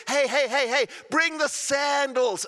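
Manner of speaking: high, loud joyful call to the servants; overjoyed father calling the servants. Acted. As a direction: shout the order across to the house. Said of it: "he shouts at the top of his lungs".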